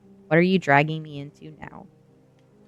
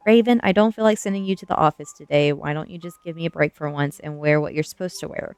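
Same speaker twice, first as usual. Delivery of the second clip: mild whine; 3 semitones lower, 4 dB louder than usual. A narrator's reading. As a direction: plead wearily with a slight whine. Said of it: "the gym teacher, whined".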